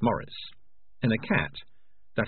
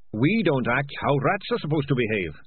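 higher, earnest little rat voice; lightly voiced rat, raised in pitch; 7 semitones higher, 4 dB louder than usual. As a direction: answer him as a small rat. Voices the rat Dangerous Beans.

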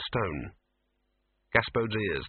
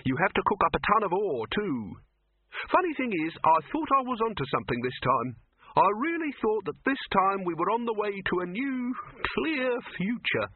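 Silverfish voice; 10 semitones higher than usual. A narrator's reading. Silverfish character voice.

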